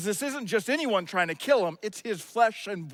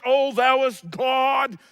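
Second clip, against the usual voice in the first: slow, lightly mocking pious voice; old English prayer; 4 dB louder, much slower than usual. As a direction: intone it slowly like a spiritual-sounding prayer. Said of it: "spiritual sounding, well-organized prayers".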